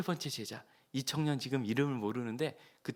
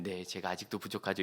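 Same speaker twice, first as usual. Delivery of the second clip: humble reply; 5 semitones lower, 4 dB quieter than usual. Retold or imitated. Humble young man, polite.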